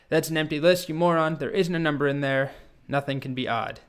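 exasperated dragon. Acted. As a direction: scold the boy as a fed-up dragon. Dragon scolds Martin as a moron.

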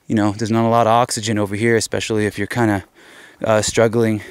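out of breath, words in quick bursts. Real, not acted. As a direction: talk while winded from the climb. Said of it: "You could hear how out of breath I am".

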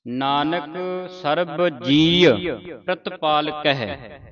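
slow, soft verse reading; slow model reading of the line; slow recitation. Shown as a demonstration. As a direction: read it slowly, pausing between words. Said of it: "ਹੁਣ ਇਕੱਠਾ ਹੀ ਉਚਾਰਨ ਕਰਨਾ ਹੈ".

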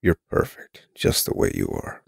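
low breathy purr; husky purr. Acted. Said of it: "He purred in that husky voice".

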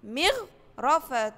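مغرفة stretched slowly; model word. Shown as a demonstration. Teacher to first graders, slow model word. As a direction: draw out مغرفة for the class. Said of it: "زي كلمة إيه؟".

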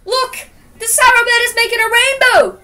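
high, excited story shout; delighted high-pitched acted yell; happy scream. A narrator's reading. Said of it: "screamed Joseph happily".

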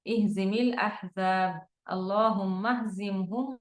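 measured Arabic supplication, very slow; slow dua recitation. Acted. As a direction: recite it prayerfully, drawing each word. (ধীর, আবেগময় দোয়া পাঠ)

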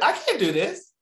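very high, hammed-up panicky squeak; mock panic. Retelling own doubt about hard news job, mock panic. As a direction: squeal it like a comic loss of nerve.

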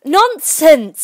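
high, forceful dismissal; decisive, ringing retort; very loud and decided. A narrator's reading. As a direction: cut in loudly and firmly. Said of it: "said Alice very loudly and decidedly".

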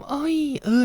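high mock sultry moan; mimicked moan. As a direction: imitate the partner's suggestive cries. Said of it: "หนูจะมาทำ".

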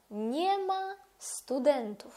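slow careful Polish nie ma studentów; drawn-out model pronunciation; Polish form. Shown as a demonstration. Teacher repeating the Polish form for students. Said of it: "Тобто ми скажемо".

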